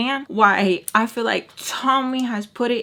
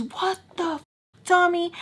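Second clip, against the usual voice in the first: high startled yelp of pain; pained outcry; 10 semitones higher than usual. Retold or imitated. Charlie yelling at Tommy after the hot sauce, high pained outcry. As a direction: cry out as the sauce hits.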